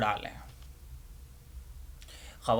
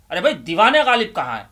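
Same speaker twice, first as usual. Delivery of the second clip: put-on fast, louder impatient old man; impatient demand; 5 semitones higher, 6 dB louder, much faster than usual. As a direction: rattle it off, fed up with waiting. Old man impatiently repeats request. (بےصبری سے تیز اور اونچا مطالبہ)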